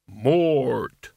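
name snapped out like a whiplash; vicious snap. A narrator's reading. Albert snapping at Mort, a vicious bark. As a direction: crack the name out fast and vicious. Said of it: "syllables snapped out as fast as a whiplash".

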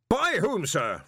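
high, loud roaring challenge; roared. A narrator's reading. Arch-Chancellor roars at the intruder, loud. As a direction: roar the question back at him. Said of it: "roared Ridcully".

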